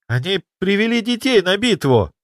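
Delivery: high appalled cry; shocked outrage at the sight; horrified Kirill. Acted. Apprentice seeing child ghosts in battle, high horrified cry.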